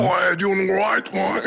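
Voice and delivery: high, slow, hammed-up Aussie accent. Co-host mimicking a hard-to-understand singer, Aussie accent. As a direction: put on a broad Australian accent. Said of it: "My Aussie impression?".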